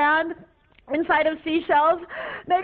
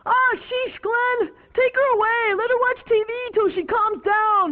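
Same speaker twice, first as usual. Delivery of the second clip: exasperated officer; 5 semitones higher than usual. Acted. Officer orders her taken away.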